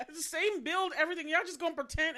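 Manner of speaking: loud, high mock telling-off; exasperated. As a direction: scold them in amused disbelief. Keeps telling off clueless pursuers.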